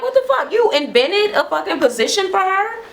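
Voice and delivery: very high-pitched indignant challenge; outraged disbelief. Retold or imitated. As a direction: imitate someone incredulous and offended. Acting out Juicy's outraged challenge.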